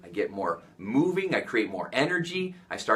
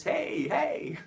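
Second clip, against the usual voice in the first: playful dance whoop; 12 semitones higher, 3 dB quieter than usual. Real, not acted. Dancing during pattern interrupt.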